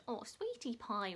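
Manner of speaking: slow cooing to her niece; doting, slow. Retold or imitated. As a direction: coo it slowly to a little niece. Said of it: "with my niece".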